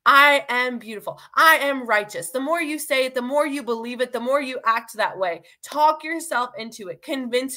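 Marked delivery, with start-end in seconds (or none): 0.0-2.3 bold declaration. Shown as a demonstration. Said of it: "Call out your true identity".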